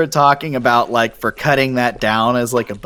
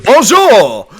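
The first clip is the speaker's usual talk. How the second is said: mock French greeting; 8 semitones higher, 7 dB louder than usual. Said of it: "Next week".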